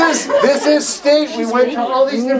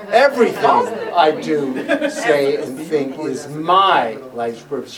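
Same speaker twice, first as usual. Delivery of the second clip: low, slow movie-trailer narrator, leaning on "my"; deep, drawn-out trailer read with weight on "my"; 8 semitones lower than usual. Shown as a demonstration. Teacher showing how to change the emphasis, movie trailer voice. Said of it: "that sounded like a movie trailer".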